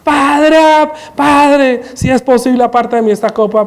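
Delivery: a desperate prayer cried to the Father, kept in check; held-back cry out. Acted. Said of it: "era que estaba gritando".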